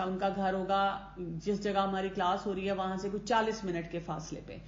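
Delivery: ordinary delivery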